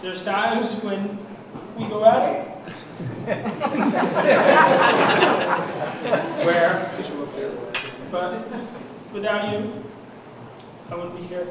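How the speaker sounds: getting emotional. Real, not acted. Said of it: "Sorry, I'm getting emotional".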